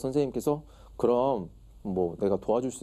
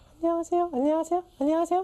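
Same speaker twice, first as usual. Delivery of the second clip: put-on woman's voice, pitched very high; 3 dB louder than usual. Recalling past voice practice, speaker imitates a woman's voice. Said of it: "여자 목소리로 냈죠".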